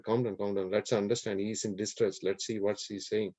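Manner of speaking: understated, soothing storyteller's Rama; calming. Acted. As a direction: settle an outraged court. Rama calms the angry assembly.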